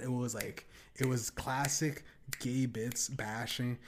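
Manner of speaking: ordinary delivery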